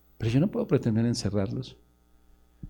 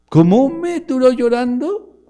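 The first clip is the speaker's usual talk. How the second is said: incredulous; 10 dB louder, slower than usual. Acted. Pastor's incredulous echo.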